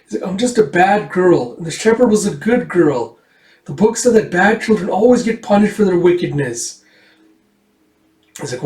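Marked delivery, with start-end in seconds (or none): 0.3-6.8 put-on high, self-blaming child; mildly distressed girlish confession; acted tearful girl. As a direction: lament in a higher child's pitch. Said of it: "tears streaming out her face".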